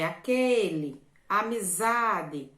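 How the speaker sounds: AQUELE and AMIZADE said loud and slow, stretching QUE and ZA; stressed syllables drawn out. Shown as a demonstration. Teacher showing pupils how to find the strong syllable, drawn-out stress on aquele, amizade. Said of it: "pronuncia a palavra".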